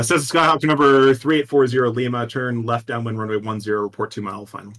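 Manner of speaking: clipped radio controller read; air traffic controller. Shown as a demonstration. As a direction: read out the runway call. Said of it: "air traffic controller speak".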